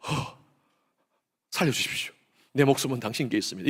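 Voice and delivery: soft gasp, then a hushed plea; hushed, pretend begging for life; mock surrender plea. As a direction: act out giving up at gunpoint, voice dropped low. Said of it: "꼼짝마 할 때".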